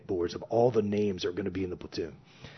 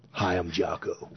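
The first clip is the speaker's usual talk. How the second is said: intimidating stare down; 3 semitones lower, slower than usual. Retold or imitated. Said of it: "gave us his typical stare down".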